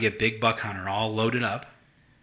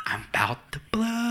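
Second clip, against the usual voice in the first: much higher, slow, laughing; laughing mock fury; 11 semitones higher, slower than usual. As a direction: squeal that you're about to explode. Laughing retelling of anger.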